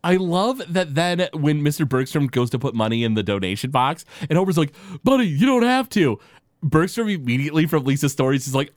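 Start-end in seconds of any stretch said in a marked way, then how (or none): 5.0-6.2 high, louder Homer-style imitation. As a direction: toss it off like Homer. Homer quoted in episode retelling.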